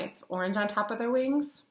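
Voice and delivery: breathy whisper, no voice at all; soft whispered aside. Real, not acted. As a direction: drop to a hushed whisper as if sharing a secret. Softly describing butterfly wings to kids.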